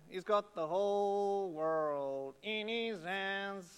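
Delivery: put-on slow, sung-out Southern American accent on the children's song line. Pastor quoting a children's song to the congregation, in a slow Southern American accent. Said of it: "That's my Southern American accent".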